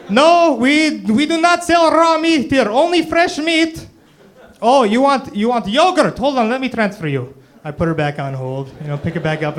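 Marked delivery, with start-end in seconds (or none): 0.1-3.9 much higher, loud, slow put-on falsetto; fake phone voice. Clerk pranking the yogurt caller on the phone, squeaky falsetto. 4.6-7.3 much higher, loud, slow put-on falsetto; fake phone voice. Clerk pranking the yogurt caller on the phone, squeaky falsetto.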